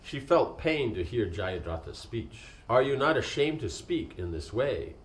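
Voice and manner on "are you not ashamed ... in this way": indignant, a touch higher and louder; sharp retort. A narrator's reading. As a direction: snap back in reproach. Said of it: "she retorted".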